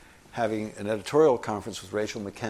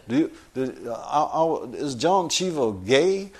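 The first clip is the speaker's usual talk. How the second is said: Craig Claiborne impression; 3 semitones higher than usual. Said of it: "he spoke like this".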